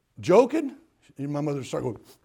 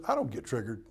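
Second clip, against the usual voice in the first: calm God voice; 5 semitones lower, 3 dB quieter, faster than usual. Acted. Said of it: "God looks at you and says".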